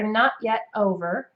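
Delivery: North American "not yet over", T's barely there; "not yet over" with unreleased T's, open O; soft final T's. Shown as a demonstration. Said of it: "gonna be just barely there".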